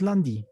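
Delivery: "lundi" with a plain D, lan-di; normal D. Shown as a demonstration. Teacher answering a student's question, plain D. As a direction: keep the D of "lundi" a simple D. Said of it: "La D es normal".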